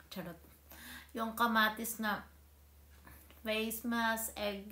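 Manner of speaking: talking while touching lips; fingers on lips. Real, not acted. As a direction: hand covering mouth partly. Seen 1: Applying face mask, fingertips repeatedly touch lips and chin while speaking.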